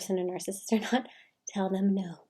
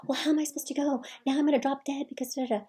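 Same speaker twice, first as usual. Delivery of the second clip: higher, whiny mock mother; a nagging mother voice, lightly acted; complaining mother; 6 semitones higher, faster than usual. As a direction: play the guilt-tripping mom.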